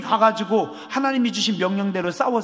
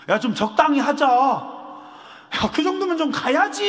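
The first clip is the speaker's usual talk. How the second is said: exasperated; 4 semitones higher, slower than usual. Pretend. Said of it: "이 정도면 승질 날 것 같아요".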